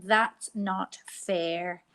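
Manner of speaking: "That's not fair." slowly at normal level; slow modelled sentence. Shown as a demonstration. Teacher repeating the sentence for pupils, slow. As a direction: spell it out slowly for the class. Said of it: "So they are saying".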